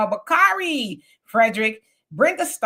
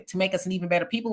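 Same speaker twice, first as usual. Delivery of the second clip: even pressed a little, quickly said; stress on even; 4 dB quieter, much faster than usual. Shown as a demonstration. Host stressing even to her viewers, light emphasis. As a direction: lean on the word even. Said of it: "with the emphasis on even".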